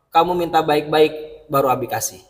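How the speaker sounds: firm but gentle, never raising the pitch; calm father voice. Retold or imitated. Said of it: "tanpa menggunakan intonasi yang tinggi".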